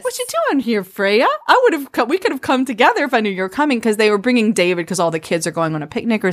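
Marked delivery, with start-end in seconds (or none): 0.0-3.8 high-pitched, mock-innocent greeting; quick, sing-out surprise at meeting her; teasing. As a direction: playfully imitate a teasing suitor. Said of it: "He is teasing her".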